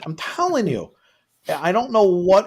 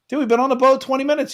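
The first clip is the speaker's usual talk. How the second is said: exasperated disbelief; 9 semitones higher, faster than usual. Retold or imitated. Retold own disbelief to friend.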